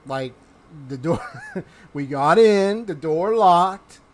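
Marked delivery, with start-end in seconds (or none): 1.5-4.0 laughing. Real, not acted. Laughing while explaining himself.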